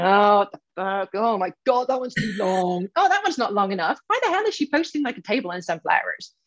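a sneering, judging scroller voice; mock critical follower. Coach mocks imagined followers judging her posts, sneering. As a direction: pretend to be a snippy critic. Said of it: "They're not sitting there going".

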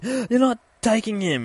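high, loud protest; defiant kid yell. Retold or imitated. Boy protecting his spider from the detective, defiant yell. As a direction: act out a boy's loud refusal.

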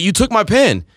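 lightly angry retold accusation; mild mock anger. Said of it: "I was like".

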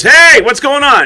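slow, loud, high call of a cop; mock cop hailing from afar. Cop calling out in retold scene.

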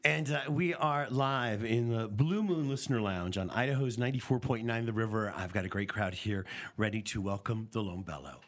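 live-on-air host welcome; radio show intro. Real, not acted. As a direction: open the live show to a crowd. Radio host opens live broadcast.

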